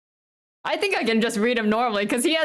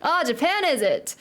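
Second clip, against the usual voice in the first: light, unsure Irish brogue; Irish accent; 2 semitones higher, slower than usual. Acted. Stranger learns they're from Japan, attempted Irish accent. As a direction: try an Irish lilt without much practice. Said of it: "how to do an Irish one".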